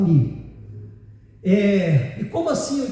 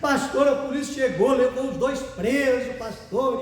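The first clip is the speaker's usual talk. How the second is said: tearful retelling, lightly hammed; mock weepy complaint; imitated sobbing; 2 semitones higher than usual. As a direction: play a woman crying out her news. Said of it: "Soluçando e chorando".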